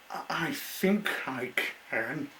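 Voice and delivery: high stammering small voice; unsure but trying; hesitant little engine. Acted. The engine answers Mister Woody, high and hesitant.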